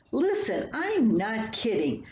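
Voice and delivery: half-hearted yell at the wall while pounding; mild mock scream. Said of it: "I screamed as I banged".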